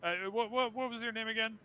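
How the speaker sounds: high, grand, theatrical ghostly host; flaming skull voice. Acted. Skull asks a favor.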